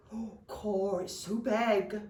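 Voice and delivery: marvelling goblin voice; awed little goblin. Acted. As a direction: gape in wonder at something huge. Young goblins marvel at the dragon.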